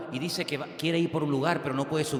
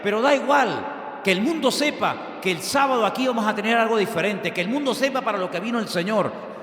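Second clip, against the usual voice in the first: preaching shout; 7 semitones higher, 5 dB louder than usual. Real, not acted. Preacher shouting the Saturday invitation.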